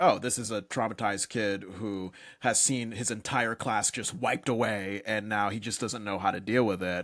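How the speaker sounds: normal talking voice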